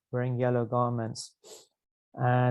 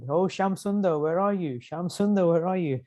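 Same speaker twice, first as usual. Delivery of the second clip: higher-pitched searching call, no real volume; mock shout; 5 semitones higher than usual. Govardhan searching for Shyam Sundar, restrained mock shout. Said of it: "and he shouted".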